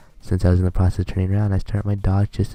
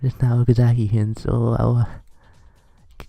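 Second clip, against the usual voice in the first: put-on higher, stammering, flustered girl's voice; 4 semitones higher than usual. Shy Fujibayashi stammers to Okazaki in higher flustered voice. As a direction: trip over the words in panic. Flustered girl after rice moment.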